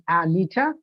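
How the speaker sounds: Anita with an open A at the start; "Anita" opening on a full "a"; incorrect pronunciation. Shown as a demonstration. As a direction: say Anita as AA-nee-tuh. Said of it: "from that incorrect pronunciation".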